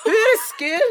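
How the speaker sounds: "Where skill" high, botched and questioning; Scottish-style mangled "Where skill"; Scottish-sounding Afrikaans. Real, not acted. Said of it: "Why is it a Scottish accent?".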